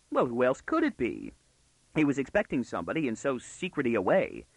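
lightly voiced indignant girl, lively pitch swings; a hint of a know-it-all girl scolding; cheeky young girl. Girl lecturing the intruder at her window, cheekily.

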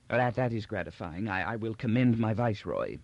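put-on hesitant elderly ruler, stumbling on first words; doddering old Emperor, gratified. Old Emperor receives report of no complaints, mildly relieved. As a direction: stammer gently like an old monarch.

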